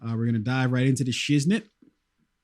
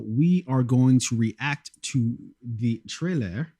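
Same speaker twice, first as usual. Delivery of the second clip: put-on French accent; slower than usual. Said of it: "I had to say that with a French accent".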